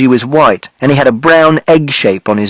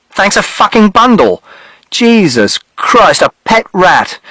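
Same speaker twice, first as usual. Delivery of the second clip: sarcastic; 5 semitones higher than usual. Acted. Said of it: "the man said".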